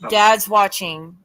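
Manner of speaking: slow, loud echo of the spirit box words. Retold or imitated. Repeating a woman's voice from the spirit box, slow and loud. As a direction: drag it out the way the box voice said it. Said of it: "A woman said".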